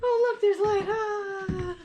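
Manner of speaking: out of breath on the stairs; climbing stairs. Real, not acted. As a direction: talk while climbing steps. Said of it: "But I'm walking up the stairs".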